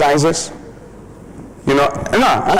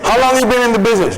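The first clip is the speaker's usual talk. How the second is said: quick question; 9 semitones higher, much faster than usual. Acted. Client asks.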